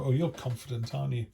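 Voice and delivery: mock-sweet jab, lightly imitated; passive aggressive. Imitating a passive aggressive person needling a confident friend. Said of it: "in a very passive aggressive way".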